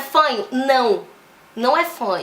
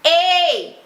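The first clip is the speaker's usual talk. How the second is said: bright, higher twangy "ei"; louder edge "ei"; 4 semitones higher, 4 dB louder than usual. Shown as a demonstration. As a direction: hit a pointed "ei". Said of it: "fazer um".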